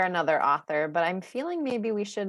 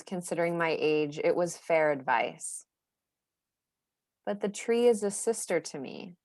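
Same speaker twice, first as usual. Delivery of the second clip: poem reading. Acted. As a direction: read it tenderly, unhurried. Reads poem Green aloud.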